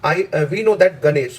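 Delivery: slow, deliberate reading of the sentence; slow dictation. Shown as a demonstration. Teacher reading a test sentence slowly to students. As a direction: read it out slowly for the class to follow. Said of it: "that के बाद आपको जोर लगाना है".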